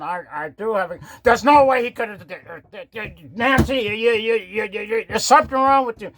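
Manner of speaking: muffled, as if behind a mask. Acted. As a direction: talk through a face mask. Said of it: "why does your voice sound muffled like that".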